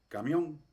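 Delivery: camión with a very brief first A; very short A. Shown as a demonstration. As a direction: clip the A in "camión", landing on the end. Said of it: "esta A corta es como".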